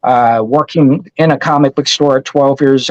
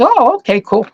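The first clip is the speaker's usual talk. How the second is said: imitating the store clerk; 8 semitones higher than usual. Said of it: "And she goes".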